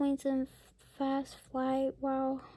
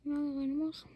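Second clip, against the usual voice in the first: soft unvoiced whisper; 3 dB quieter, faster than usual. Real, not acted. Pointing at the picture for the child, whispering. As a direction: lean in and whisper it.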